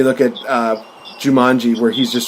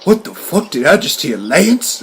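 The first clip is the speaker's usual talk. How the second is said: mock incredulous double-take; acted disbelief; 3 semitones higher than usual. Co-star questions the name he just heard, mock incredulous. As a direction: question what you heard, lifting on the name.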